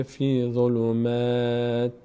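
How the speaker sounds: slow "فی ظلمات" ending on a still "t"; stopped ending. Shown as a demonstration. Teacher shows pausing on the word, stopped "t". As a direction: hold the thin "maa" of "ظلمات", then stop on "t". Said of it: "روی این کلمه اگر وقف کنیم".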